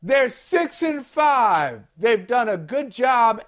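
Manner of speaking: slow sarcastic praise; fake apology. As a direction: say it slowly, tongue in cheek. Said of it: "And in all seriousness".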